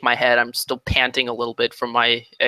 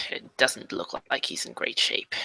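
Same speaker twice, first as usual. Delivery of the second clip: whispering; 8 dB quieter than usual. Acted. Wounded character speaking on.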